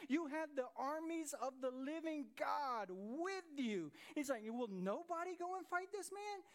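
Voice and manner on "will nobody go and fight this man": challenging David. Retold or imitated.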